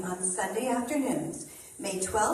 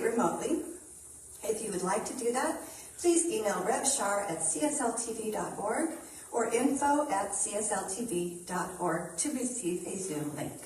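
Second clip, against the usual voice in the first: out of breath. Real, not acted. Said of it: "Sorry, I'm so out of breath".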